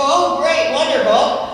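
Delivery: high, loud sarcastic "oh great"; mock enthusiasm. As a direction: fake delight at unwelcome criticism. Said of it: "We go".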